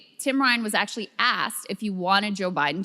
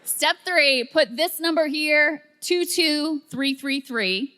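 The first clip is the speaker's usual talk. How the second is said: slow step-by-step; 5 semitones higher, slower than usual. Shown as a demonstration. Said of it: "this is how I would need it explained to me".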